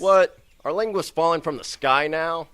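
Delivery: high, loud disbelieving yell; shocked yell. Acted. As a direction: shriek it in sheer disbelief. Stranger appears from nowhere.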